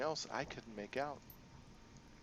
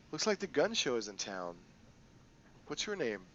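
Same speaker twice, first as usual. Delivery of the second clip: a hint of a sly crime boss; lightly voiced, playful boss lady; Kindly Ching.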